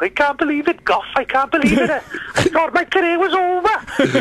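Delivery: high-pitched imitation of a tearful player; mock crying. Injured player thanks his club on stage, mock crying. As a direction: wail it high, hammed-up, dragging the end. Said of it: "And he starts crying".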